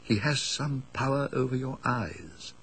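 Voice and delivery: hushed, distant recollection of a friend's words; recalled warning. Retold or imitated. Narrator recalling Paxton's warning, hushed and uneasy. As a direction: let it drop to an uneasy hush. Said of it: "I remembered his saying".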